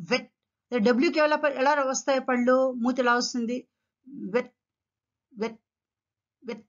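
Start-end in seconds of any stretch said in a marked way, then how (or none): 0.1-0.3 "వెట్" as vet, teeth on bottom lip; V sound. Shown as a demonstration. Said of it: "bottom lip కు లోపల". 4.3-6.6 "వెట్" as wet, lips pushed forward; "వెట్" with no teeth on the lip; W sound. Shown as a demonstration. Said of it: "your lips come forward".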